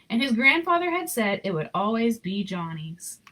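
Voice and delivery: gentle read-aloud storyteller voice; story narration. A narrator's reading. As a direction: read it like a bedtime picture book. Reading picture book aloud.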